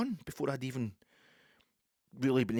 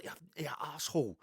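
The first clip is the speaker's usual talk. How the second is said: higher-pitched, insistent imitation of the woman; retold indignant complaint; 6 semitones higher than usual. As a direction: press for an apology as the aggrieved shopper.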